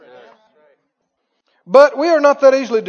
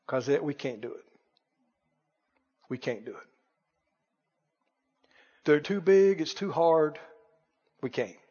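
much lower and softer, defeated; hopeless mumble, much quieter; mopey defeatist; 8 semitones lower, 10 dB quieter than usual. Acted. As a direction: sigh it out like you've given up. Voicing the doubting spies.

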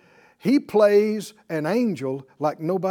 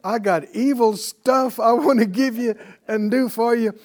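a lightly voiced devil, a bit louder and brighter in tone; jokey devil pitch; mock devil; 3 semitones higher, 4 dB louder than usual. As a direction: ham up the devil making an open offer. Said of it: "and goes".

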